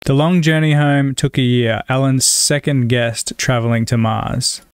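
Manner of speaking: measured read-aloud of test sentences; reading sample sentences. Shown as a demonstration. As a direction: read each sentence evenly and carefully, with slowed endings.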